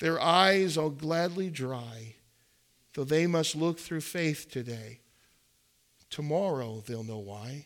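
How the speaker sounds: usual speaking voice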